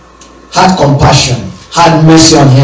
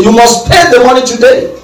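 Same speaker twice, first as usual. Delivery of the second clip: demanding; 5 semitones higher than usual. Retold or imitated.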